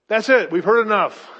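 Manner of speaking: loud crowd shout. Acted. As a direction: cut him off as the furious crowd. Crowd cuts Paul off.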